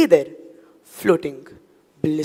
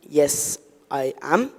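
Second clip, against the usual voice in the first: small, much softer frightened reply; 5 semitones lower, 5 dB quieter, slower than usual. Acted. Narrator answering the talking cockroach, frightened and soft. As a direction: answer barely daring to speak. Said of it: "Though I was completely frightened".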